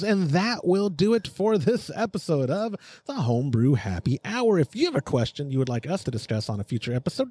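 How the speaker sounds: punchy announcer read with stretched key words; podcast outro read. Acted. Host closing the show and thanking the sponsor, announcer voice. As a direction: sell the sign-off like a radio promo.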